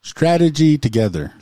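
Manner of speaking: STRATEGY TOGETHER run quickly as one phrase; said fast. Shown as a demonstration. Co-host shows off the tricky phrase, said fast. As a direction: rattle STRATEGY TOGETHER off without a break. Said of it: "I'll say it fast".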